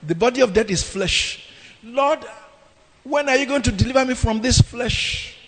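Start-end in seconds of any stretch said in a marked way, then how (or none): 1.8-5.4 higher, half-sung plea to the Lord; preacher acting Paul's weary cry; exasperated plea. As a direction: voice Paul worn out and begging. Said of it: "He said this in exasperation".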